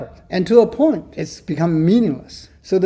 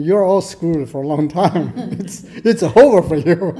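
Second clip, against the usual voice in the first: joking doom, breaking into laughter; laughing mock verdict. Lecturer voicing Derrida to the class, laughing. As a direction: deliver bad news while chuckling.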